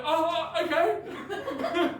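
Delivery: sheepish oh okay. Retold or imitated. Retold sheepish reply.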